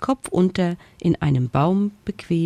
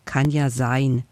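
sighing; 3 semitones lower than usual. Acted. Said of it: "seufzte das Gespenst".

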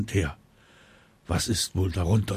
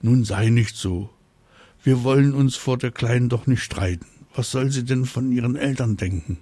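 worried; 3 semitones higher than usual. Acted. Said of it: "Mama Drache klingt besorgt".

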